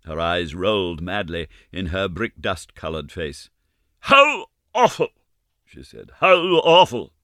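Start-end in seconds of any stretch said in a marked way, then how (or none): 4.0-5.1 loud, high, drawn-out horror; groaning exclamation. Acted. Ma collapses in the armchair, loud horror. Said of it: "dropped groaning into a vacant armchair". 6.2-7.1 repeated cry of horror, a bit quicker; horrified. Acted. Ma repeats her shock to the girls, horrified. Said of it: "dropped groaning".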